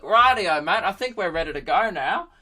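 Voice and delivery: put-on cheery old man coming back to the job; old dude. Laptop returning to its waiting owner, old dude voice. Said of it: "like, some old dude taking notes".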